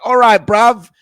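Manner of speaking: high, loud mock Birmingham accent; Arthur. Host imitating ten-year-old playing Peaky Blinders, yelled mock British accent. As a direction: yell it in a put-on Birmingham gangster accent. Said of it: "yelling at each other like Arthur".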